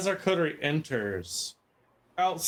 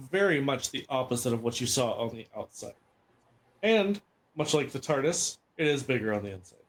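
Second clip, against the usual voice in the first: game master narration. Acted. Game master scene setting.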